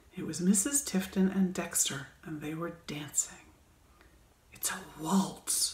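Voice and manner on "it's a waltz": secretive, hushed half-whisper. Reading Jeffrey's line to Skye as they watch the dancing; half-whispered. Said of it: "whispered Jeffrey".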